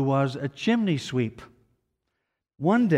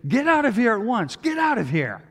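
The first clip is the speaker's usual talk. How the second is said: loud, high furious yell at the intruder; furious shout; 9 semitones higher, 5 dB louder than usual. A narrator's reading. Girl's guardian shouting the sooty boy away, furious. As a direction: shout him out of the room. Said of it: "he shouts furiously".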